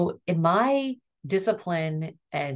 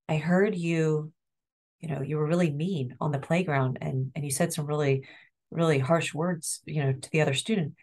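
empathetic tone. Shown as a demonstration. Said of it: "do you hear that tone in my voice".

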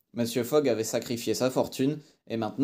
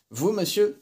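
high, loud disbelieving outburst; astonished cry; 8 semitones higher, 4 dB louder than usual. A narrator's reading. Fix to Fogg, stunned he'd go alone, astonished cry. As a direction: shoot it up high in shock. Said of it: "s'écria Fix".

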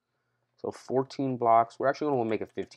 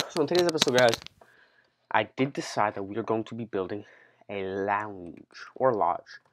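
out of breath; 3 dB louder than usual. Real, not acted. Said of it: "kind of out of breath".

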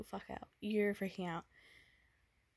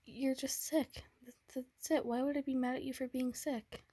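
put-on tender boyfriend; 3 semitones higher than usual. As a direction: coax her gently, afraid of what's coming. Boyfriend comforts sick girlfriend, fearing breakup.

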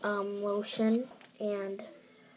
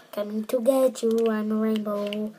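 louder playful spooky ghost; Pac-Man ghost voice; 5 dB louder than usual. Pretend. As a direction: boom it out like a cartoon ghost. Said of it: "it looks like the ghost from Pac-Man".

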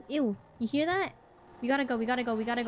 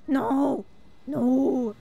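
panicked shout; 5 semitones lower, 4 dB louder than usual. Real, not acted. Chased by monster.

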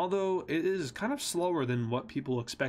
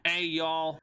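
brief Southern US accent demo; lightly put-on American Southern accent. Shown as a demonstration. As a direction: toss out a quick Southern accent greeting. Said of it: "like, the American Southern accent".

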